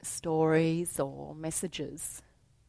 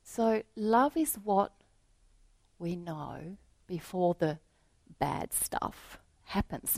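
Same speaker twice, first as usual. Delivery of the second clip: reflective repeat. Real, not acted. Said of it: "Isn't that wonderful?".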